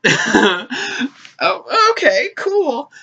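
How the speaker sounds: very high, acted awkward squeak; flustered acceptance. Passenger reacting to old man coming out, flustered acceptance. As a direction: squeak out a startled, polite acceptance. Flustered reply to surprise confession.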